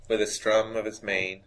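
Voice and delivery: lightly voiced narrator impression, deliberate pauses; Morgan Freeman. Co-host improvising the made-up reading, light narrator impersonation. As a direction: recite it like a measured storyteller, lightly put on. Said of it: "perfect my Morgan Freeman impression".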